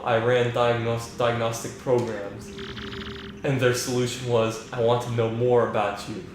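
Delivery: flat, even AI voice like Hal; calm, emotionless machine; monotone computer voice. Acted. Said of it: "just that monotone voice".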